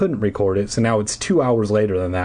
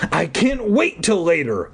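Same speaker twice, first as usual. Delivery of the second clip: trembling voice; 6 semitones higher than usual. Acted. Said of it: "in a trembling voice".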